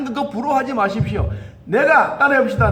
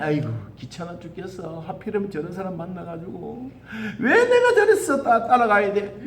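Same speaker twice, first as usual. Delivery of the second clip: quiet, fed-up grumbling; softer mock grumble about the leader; grumbling mutter; 4 semitones lower, 4 dB quieter than usual. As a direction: mutter like a weary complainer. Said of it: "투덜투덜거리면서 따라가는 거예요".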